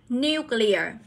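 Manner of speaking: Nuclear stressed on NU, falling after; NU-clear, falling citation form; first-syllable stress. Shown as a demonstration. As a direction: repeat "Nuclear" as a model, weight on the first syllable. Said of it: "nhấn vào âm một".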